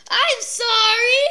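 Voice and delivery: drawn-out sorry. Real, not acted. Apologises to viewers.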